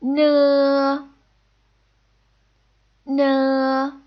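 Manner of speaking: N sounded as a clear n with a vowel after, as in no; N as an n sound with a following vowel; Mandarin initial n. Shown as a demonstration. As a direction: say N as a Mandarin n syllable. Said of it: "as in no".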